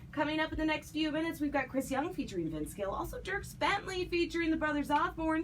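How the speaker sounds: upbeat TV host's coming-up read, pitched a little high; lively presenter sign-off; broadcast tease. Real, not acted. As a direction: tease the next acts before the break. Host teases upcoming segment.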